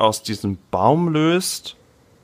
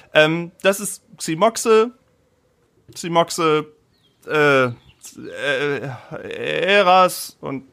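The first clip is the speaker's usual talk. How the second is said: higher, flustered village mayor; nervous mayor voice; 3 semitones higher than usual. Acted. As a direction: babble like a flustered old mayor. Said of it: "Und er meint dann zu euch".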